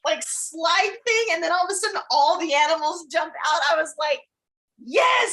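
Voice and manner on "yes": high-pitched re-enacted "yes"; retold cheer. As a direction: cheer as if watching it. Retelling their cheer at the film.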